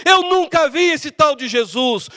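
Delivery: high, slow, emphatic shout; sworn denial. Acted. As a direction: swear it out word by word. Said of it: "Jurou dizendo".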